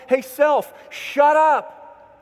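loud, high sharp cut-off; telling self off. Retold or imitated. Preacher showing how to silence your inner complainer, loud sharp command. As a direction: snap at your own gloomy voice.

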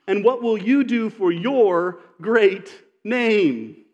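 very slow, every word pressed out; frustrated plea. Retold or imitated. Preacher replaying Joshua's lament to God, slow and pained. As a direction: drag it out like a man at his wit's end. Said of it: "He's frustrated".

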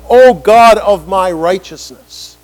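slow, drawn-out prayerful call; fervent plea. Acted. Preacher voicing David's prayer, slow fervent plea. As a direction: cry out to God slowly and loud.

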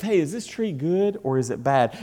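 mild, even acted question; calm and collected. Preacher as Jesus questioning calmly, calm and collected. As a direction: ask it evenly, before the outburst. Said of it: "calm and collective".

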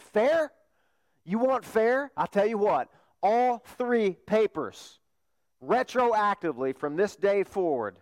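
emphatic acted outrage; mock indignant retort. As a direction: throw their demand back at them incredulously. Professor retorts to protesting students.

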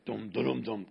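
low sung dum dum dum, like a film score sting; mock ominous music. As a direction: hum a little doom fanfare. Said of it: "kinda should have music with it".

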